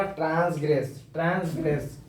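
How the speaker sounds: ट्रांसग्रेस said in full as trans-gress, the gress clearly sounded; correct pronunciation. Shown as a demonstration. Teacher showing students the correct ट्रांसग्रेस, carefully. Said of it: "इसका correct pronunciation क्या होगा".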